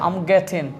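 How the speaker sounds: "getting" ending in n, no g; silent final G. Shown as a demonstration. Teacher modelling the short phrase, "getting" with silent G. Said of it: "জিটা silent".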